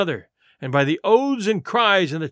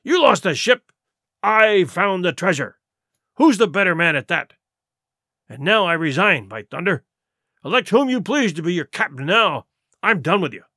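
defiant boast. Acted. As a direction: dare them to choose another. Silver resigns in defiance.

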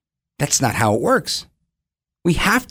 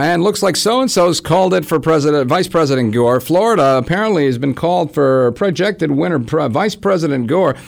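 news anchor voice. Retold or imitated. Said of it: "everybody just called".

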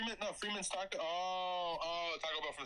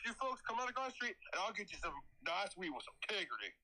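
fake country voice; 4 semitones higher than usual. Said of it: "his fucking fake country voice".

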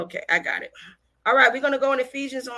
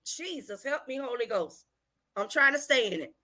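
hushed aside prayer; 6 dB quieter than usual. Real, not acted. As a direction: drop right down to pray under the preaching. Aside prayer amid fiery preaching.

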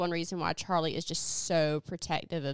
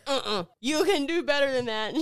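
raised-pitch pep talk; hype man; 5 semitones higher, 3 dB louder than usual. Retold or imitated. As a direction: push them to try harder. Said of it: "her hype man".

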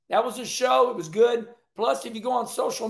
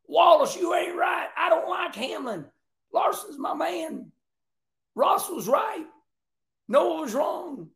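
higher, shouty fan ribbing Wallace; mock fan comment; 7 semitones higher than usual. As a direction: play a rowdy fan yelling his opinions. Voicing viewers' comments.

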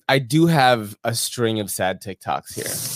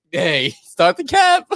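mocking quote; 7 semitones higher, 4 dB louder, much slower than usual. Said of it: "And he's like".

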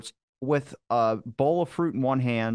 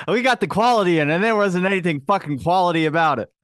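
much higher and louder, laughing through it; 5 semitones higher, 5 dB louder than usual. Real, not acted. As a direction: crack up while mocking the hotel. Laughing about the cheap hotel.

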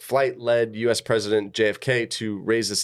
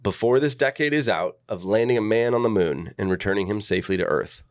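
reading speech aloud. Shown as a demonstration. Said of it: "I'm gonna read this".

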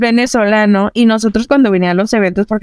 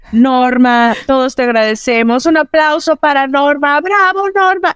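rising, more and more exalted announcing; mock priest's farewell; 5 semitones higher than usual. The priest calls for applause for Norma, building to a high cheer. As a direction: whip the congregation up toward bravo.

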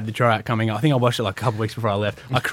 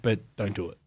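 hushed warning; 5 semitones lower, 9 dB quieter than usual. Retold or imitated. Coach's hushed warning, retold.

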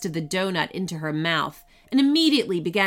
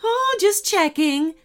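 lightly voiced cyclops, higher and slower; 10 semitones higher, 5 dB louder than usual. A narrator's reading. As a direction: draw it out as a higher, louder cyclops. Cyclops speaking in story.

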